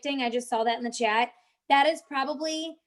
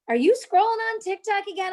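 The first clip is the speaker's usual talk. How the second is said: higher, quick mock questioning; imitated nagging question; 7 semitones higher, faster than usual. Mike catching her scrolling on TikTok, mock accusing. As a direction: imitate someone catching you at it, pitched up.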